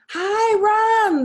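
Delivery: loud friendly hail across the street; calling out. A narrator's reading. Grocer calling to Ron from the store front, loud and cheery. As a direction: call out a cheery hello. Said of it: "the grocer called".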